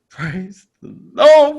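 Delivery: high, loud, slow cry of relief; hammed-up hallelujah; relieved. Relief after passing checkpoint.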